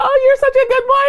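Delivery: very high-pitched voice. Showing owners how to tell their dog he's a good boy, high-pitched voice. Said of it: "In that high-pitched voice".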